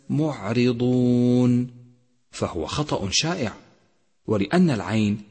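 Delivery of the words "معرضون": معرضون very slow, with a smooth ع; careful recitation. Shown as a demonstration. Teacher warning students, reciting slowly. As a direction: stretch معرضون with no bounce on ع. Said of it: "احذر من قلقلة حرف العين".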